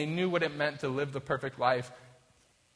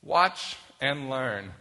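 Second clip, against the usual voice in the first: boastful leader; 5 dB louder, slower than usual. Retold or imitated.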